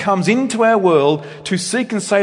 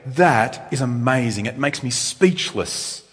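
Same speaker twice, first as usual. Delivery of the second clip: awestruck; 4 semitones lower, 3 dB quieter, slower than usual. Pretend.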